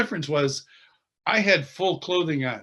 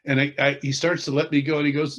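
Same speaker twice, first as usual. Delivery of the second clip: ordinary delivery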